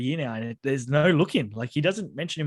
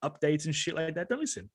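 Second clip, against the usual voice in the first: imitating Blind Mike; 3 semitones higher than usual. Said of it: "how he's always like".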